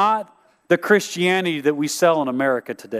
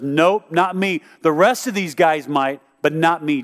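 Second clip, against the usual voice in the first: angry denial. Retold or imitated. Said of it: "Peter literally gets angry at Jesus and says".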